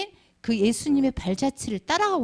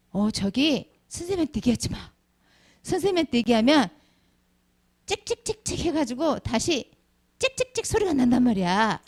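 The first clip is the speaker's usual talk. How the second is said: put-on gossiping kids. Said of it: "이렇게 얘기를 하죠".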